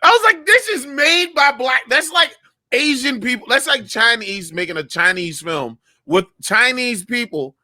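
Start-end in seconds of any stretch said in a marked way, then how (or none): 0.0-3.5 high, worked-up protest; incredulous outrage. Retold or imitated. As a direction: relive the disbelief, pitched way up. Retelling outraged reaction to the film.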